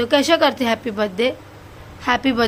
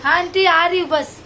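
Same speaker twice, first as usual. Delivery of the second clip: raised, higher call to someone away; real call-back, pitched up; 4 semitones higher than usual. Real, not acted. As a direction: answer an aunt from a distance. Calling back to aunt elsewhere.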